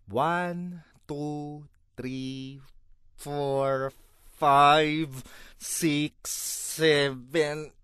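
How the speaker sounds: slow deliberate count to ten; counting to ten to keep from snapping; counting to calm down. Real, not acted. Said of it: "Ayan, kumalma na ako".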